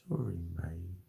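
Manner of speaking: softly, a quiet sorry to the pet; soft apology to cat. Real, not acted. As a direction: murmur it gently to the cat. Apologising to cat after hurting it.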